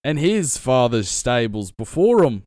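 lightly voiced stable owner, slow and proud; a hint of a folksy stable man, drawn out; stable hand voice. Shown as a demonstration. GM demoing a quick NPC voice, lightly voiced stable owner. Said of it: "I just think of a voice really quick".

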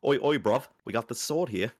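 cheeky London geezer accent, hammed up; mock British accent. Mock British accent threatening creditors over a sword. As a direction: put on a lightly done British thug accent. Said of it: "They're all British".

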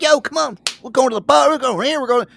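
high, loud party hype, imitating the friend; pumped-up party guy. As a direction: drag your buddy out the door to the bar. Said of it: "he's like".

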